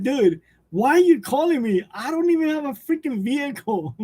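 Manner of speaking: mild mock exasperation. Streamer's retort to scam car callers, mild mock exasperation. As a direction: lightly play up being fed up.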